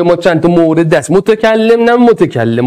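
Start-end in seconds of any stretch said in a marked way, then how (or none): 1.1-2.0 متکلم said slowly and clearly, moteh-kal-lem; correcting a misreading. Shown as a demonstration. Teacher to class, correcting the word متکلم. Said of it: "متلکم نه". 2.0-2.6 متکلم said carefully, mo-ta-kal-lem; careful correct pronunciation. Shown as a demonstration. Teacher to students, fixing the typo متکلم. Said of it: "متلکم هم نوشتم".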